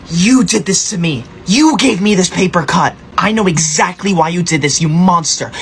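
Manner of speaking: hammed-up outrage at a classmate; melodramatic accusation. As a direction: accuse them like a wronged victim. Accusing classmate of causing cut.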